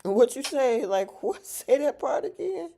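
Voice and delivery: high, loud disbelief; surprised. Real, not acted. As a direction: ask again in shocked delight. Surprised by chat comment.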